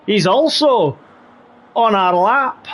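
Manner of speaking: put-on Scottish accent. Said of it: "do the rest of the race in the Scottish accent".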